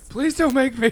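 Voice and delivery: high, pleading whine; whiny plea. Retold or imitated. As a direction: beg not to be made to. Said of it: "I will literally cry".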